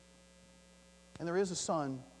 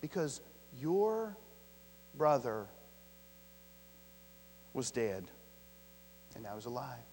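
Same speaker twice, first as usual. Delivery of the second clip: drawn-out, lower, softening phrase; slow emphatic reading; 5 semitones lower than usual. Acted. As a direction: lean on every word slowly. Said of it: "look at this next phrase".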